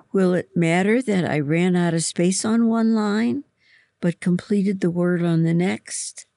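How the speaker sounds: distressed. A narrator's reading. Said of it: "Hearing her distress".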